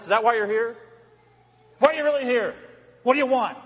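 a hint of a pressing, confronting preacher voice; Christ's challenge. Christ challenging churchgoers' motives, lightly voiced pressing questions. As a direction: keep pushing the questions at the congregation. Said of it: "That's ever his challenge".

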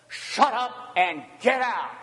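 forceful, emphatic order; harsh command. Acted. Satan hears it from Jesus, harsh command. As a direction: punch each half with authority.

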